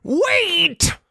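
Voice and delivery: high Spike voice, falling at the end; Spike's desperate wait. Shown as a demonstration. Host redoes Spike's call to the mob, high and pleading. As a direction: redo the wait as the panicked dragon. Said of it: "I mean".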